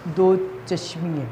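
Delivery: put-on دو چشمی ہے said slowly, each word spaced for the children; slow teacher repeat; slow and deliberate. Shown as a demonstration. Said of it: "کیا بنتے، پڑھتے ہیں؟".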